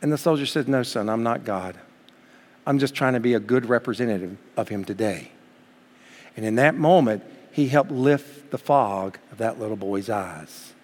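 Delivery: quiet reverent telling; hushed storytelling. Acted. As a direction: let the story land gently.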